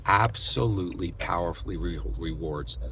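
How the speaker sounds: whispered. Real, not acted. Hushed pointed ending.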